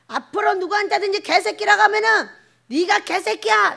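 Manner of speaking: loud, high reprimand; mock thundering telling-off; acted scolding.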